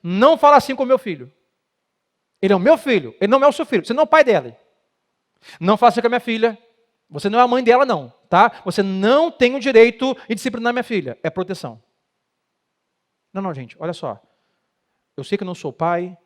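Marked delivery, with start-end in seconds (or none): 0.0-11.2 loud, high protective outburst; angry parent. Retold or imitated. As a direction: defend your own child, heated. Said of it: "Então o discurso que é". (pai irritado, falando alto e agudo)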